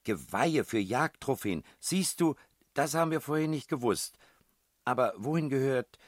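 high, loud triumphant burst; excited discovery. A narrator's reading. Billy telling the princess she found the answer, high excitement. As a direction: cry out the find, pitched far up.

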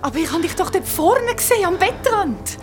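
very high, loud screaming; terrified scream. Acted. Screaming to the friend in terror. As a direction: scream her name in terror. Panicked over the arm.

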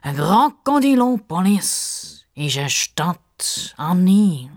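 "Krokodilopolis" slowly and grandly declared; pompous announcement. Acted. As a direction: clear your throat and proclaim it. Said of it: "clears throat".

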